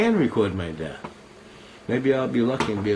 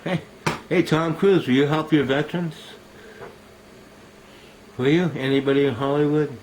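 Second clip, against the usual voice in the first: calling out; 4 semitones higher, 4 dB louder than usual. Real, not acted. Calling out to Tom Cruise.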